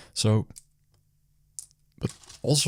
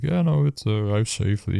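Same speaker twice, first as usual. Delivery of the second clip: joking kindly; 2 semitones higher, 4 dB louder than usual. Retold or imitated. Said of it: "kinda in a joking way".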